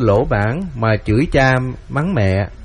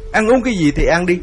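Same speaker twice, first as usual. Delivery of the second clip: husband barks at his wife, higher and rough; snapping angrily; 5 semitones higher, faster than usual. Acted. Husband snarls at the wife who wakes him, angry. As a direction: shout her off, fed up and threatening. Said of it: "thượng tứ trợn mắt và nạt".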